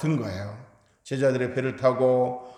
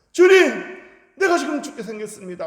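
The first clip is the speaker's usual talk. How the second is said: much higher, much louder panicked shout, rushing the end; desperate scream; 10 semitones higher, 7 dB louder than usual. Retold or imitated. Peter sinking in the water, screaming to Jesus for rescue. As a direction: yell for your life as you go under. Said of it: "막 소리를 지르면서 외쳤을".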